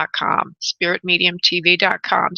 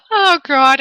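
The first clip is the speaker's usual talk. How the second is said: breaking character giggling; 7 semitones higher, 6 dB louder than usual. Real, not acted. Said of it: "I can't keep a, a straight face".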